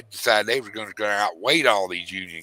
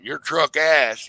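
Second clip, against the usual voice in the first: put-on slow, louder scoff of an old man; old man talk; 5 semitones higher, 5 dB louder, much slower than usual. Father refusing to hand over the truck keys, slow mock old-man scoff. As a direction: drag it out like a grumpy old dad, lightly voiced. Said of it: "you know how old men talk".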